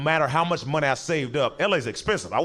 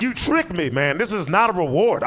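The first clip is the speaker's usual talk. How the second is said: indignant; 4 semitones higher, 3 dB louder than usual. Retold or imitated. Scolding roommate, raised voice.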